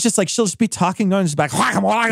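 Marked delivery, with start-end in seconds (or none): 1.5-2.1 Guacamole said the Spanish way, wah-kah-MO-leh; mock Spanish accent with a rise at the end. Imitating the coworker's sudden Spanish accent. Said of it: "she drops into the deepest accent".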